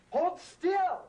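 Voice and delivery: sharp high frustrated shout; yelling. Acted. Brother losing patience with the wriggling baby, a shout. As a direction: snap at the squirming baby. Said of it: "I'm sorry I yelled at you".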